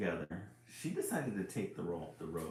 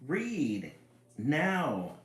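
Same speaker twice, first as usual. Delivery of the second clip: higher, bright, louder characters; eager book voices; 7 semitones higher, 4 dB louder, much slower than usual. Acted. New books arriving, eager for story time. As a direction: pop in excitedly.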